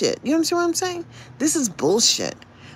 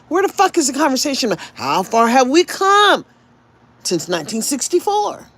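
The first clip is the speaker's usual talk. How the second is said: angry rant; 5 semitones higher, 4 dB louder than usual. Real, not acted. Ranting at society.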